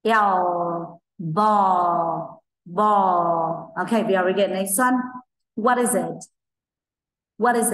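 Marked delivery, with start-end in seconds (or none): 0.0-3.7 "Ball" with the tongue lifted for the L at the end; "Ball" kết thúc bằng âm L rõ ràng; final L shown. Shown as a demonstration. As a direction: close "Ball" on a clear L. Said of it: "các bạn đẩy lưỡi lên".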